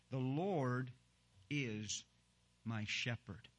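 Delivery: "Lord" drawn out, then a pause; stress on Lord. Shown as a demonstration. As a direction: lean on "Lord", then pause before the rest. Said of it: "I say that with emphasis on the word Lord".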